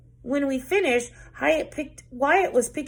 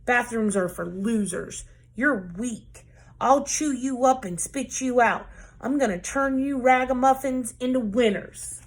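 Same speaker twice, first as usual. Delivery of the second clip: coach barking; 2 semitones higher than usual. Acted. Coach barking insults at her weak young team. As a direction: growl threats like a drill sergeant. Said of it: "Coach Hyatt barked".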